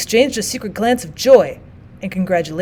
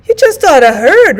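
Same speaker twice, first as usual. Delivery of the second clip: louder and higher, bursting with news; eager repeat; 7 semitones higher, 9 dB louder than usual. Acted. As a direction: insist even more eagerly. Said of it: "repeated the other".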